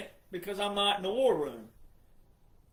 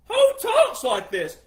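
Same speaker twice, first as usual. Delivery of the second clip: higher, louder, slow outraged question; exasperated loud cry; 12 semitones higher, 10 dB louder, slower than usual. Real, not acted. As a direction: shout it in disbelief. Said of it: "who talks like that".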